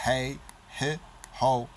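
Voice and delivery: "He, he, ho" as separate short bursts with a hard H; staccato, emphatic "He, he, ho". Shown as a demonstration. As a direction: punch out each of "He, he, ho". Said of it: "It's emphatic".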